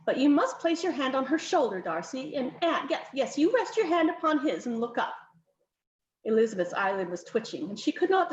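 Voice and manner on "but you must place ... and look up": higher, insistent countess ordering poses; bossy countess. Acted. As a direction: countess fussing over the portrait, lightly voiced. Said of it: "the lady conceded".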